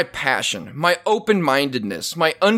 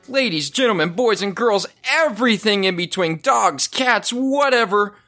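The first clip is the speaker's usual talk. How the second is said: higher, building showman roll call; ringmaster; 5 semitones higher than usual. Acted.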